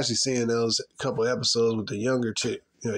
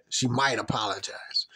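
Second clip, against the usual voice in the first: whisper; 3 semitones lower than usual. Real, not acted. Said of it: "whisper heard".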